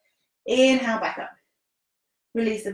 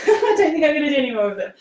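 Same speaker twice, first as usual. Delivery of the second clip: laughing; faster than usual. Real, not acted. Laughs after tough dolphin presses.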